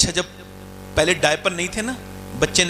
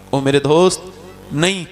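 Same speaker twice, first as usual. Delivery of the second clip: anguished cry; 5 semitones lower, 4 dB louder than usual. Acted. Preacher pleads with drinker listener.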